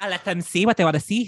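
put-on lightly Irish-accented echo; a hint of Irish brogue; mock Irish accent. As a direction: copy the line in a playful Irish lilt. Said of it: "You sound like a real Roy Sheen Murphy".

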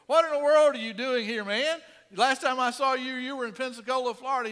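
loud, high burst of surprise; astonished greeting. Retold or imitated. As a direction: exclaim it like bumping into an old friend far from home. Retells astonished greeting to old instructor.

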